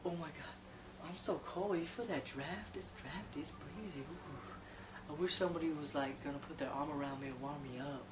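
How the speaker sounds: hammed-up shivering come-on.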